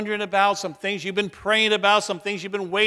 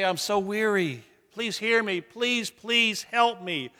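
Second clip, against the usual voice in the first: soft, pleading prayer; acted weary prayer for help; weary plea; 2 semitones higher, 4 dB quieter, slower than usual. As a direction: plead gently, drawing out the last please. Voicing a weary prayer to God.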